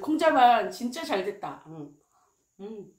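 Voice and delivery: eating a spoonful of rice; talking around spoon at lips; mouth full of rice. Real, not acted. Seen 2: holds rice spoon, then spoon at lips from 6.9s.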